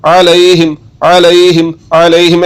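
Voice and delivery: अलैहिम opening on a squeezed, voiced ain; mid-throat ain. Shown as a demonstration. Teacher drilling learners, mid-throat ain. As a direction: press the first sound of अलैहिम mid-throat. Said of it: "हलक के दरमियान वाले हिस्से से".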